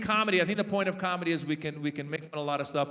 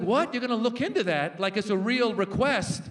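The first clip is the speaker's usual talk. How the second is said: higher, incredulous comic questioning; incredulous retort; 3 semitones higher, 3 dB louder than usual. Retold or imitated. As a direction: act baffled that anyone would agree. Comic disbelief at Trump's reply.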